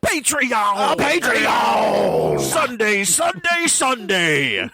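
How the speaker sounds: monster truck ad. Pretend. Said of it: "Monster Truck rally".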